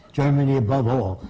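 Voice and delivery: normal talking voice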